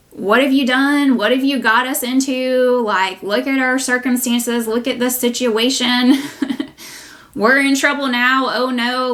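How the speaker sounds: the flesh fretting at its circumstances, mock panic; panicky flesh. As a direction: ham up the worried flesh complaining. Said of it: "And your flesh is saying".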